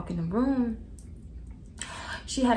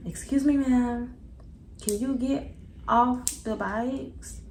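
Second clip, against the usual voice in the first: intercom voice; 4 semitones higher, much slower than usual. Retold or imitated. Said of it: "They come on the intercom".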